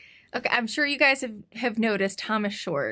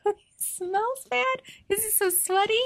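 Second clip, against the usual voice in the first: disgusted; 12 semitones higher than usual. Retold or imitated. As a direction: squeal it in mock disgust. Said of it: "I was like".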